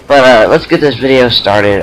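lisping around a retainer; slight retainer lisp; wearing a retainer. Real, not acted. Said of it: "sorry if I sound like I've got a wisp".

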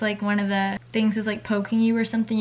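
pointing at braces while talking; slightly pulled lip speech; finger at lips. Real, not acted. Seen 0: fingertip presses lip corner by braces while speaking.

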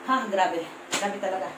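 breathless sigh. Real, not acted. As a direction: sigh it out, winded from counting. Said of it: "hinihingal ako". (hingal na buntong-hininga)

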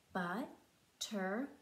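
slow, split into beats on the fingers; syllable by syllable. Shown as a demonstration. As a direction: count each syllable out slowly. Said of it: "Let's try with our fingers".

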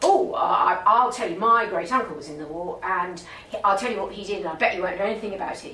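lightly voiced Cockney taxi driver; a chatty London cabbie with a hint of Cockney; comedy Cockney. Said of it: "Cockney accent now".

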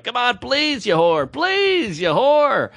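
mock begging, high drawn-out pleases; beg, then tack on the insult; retold pleading. Traveler begging the desk lady for a seat, pleading. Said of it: "I'm, like, pleading with her".

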